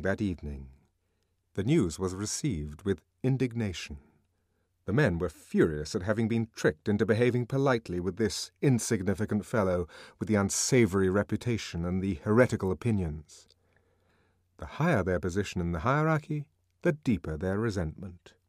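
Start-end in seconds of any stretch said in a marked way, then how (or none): none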